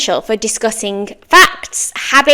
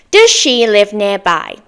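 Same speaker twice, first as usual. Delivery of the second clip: slow model question; 2 semitones lower than usual. Shown as a demonstration. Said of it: "Next sentence".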